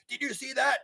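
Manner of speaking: high, astonished question; amazed exclamation. Retold or imitated. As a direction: gasp it out like seeing a miracle. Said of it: "And he went".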